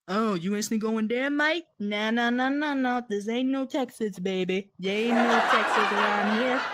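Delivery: loud, put-on British accent. Shown as a demonstration. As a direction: do a cheeky, loud British character. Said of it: "based on with British".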